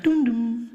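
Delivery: sung-out PA chime; imitated announcement chime. Airport announcer opening her announcement, imitated chime. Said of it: "she'll come and be like".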